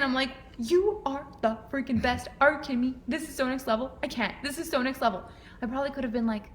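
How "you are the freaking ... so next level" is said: excited gushing. Retold or imitated. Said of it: "I was so excited".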